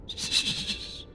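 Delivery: soft unvoiced shush; calm the child gently; mother hushing her hurting son; soothing hush.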